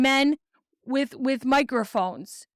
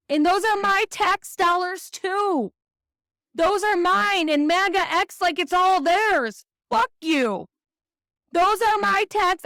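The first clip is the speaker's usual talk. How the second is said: raised, heated rant about her taxes; hot, building outrage; real anger; 3 semitones higher than usual. Real, not acted. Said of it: "I'm getting angry again".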